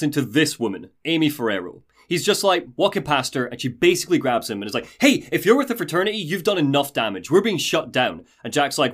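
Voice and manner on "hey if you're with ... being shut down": brisk, pushy challenge, higher at the start; lightly acted telling-off; confronting protester. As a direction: rattle it off at him accusingly.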